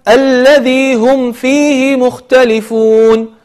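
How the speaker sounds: slow melodic tajweed chant; Quran recitation. Shown as a demonstration. Teacher reciting the next verse, chanted. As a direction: recite with measured, lengthened vowels.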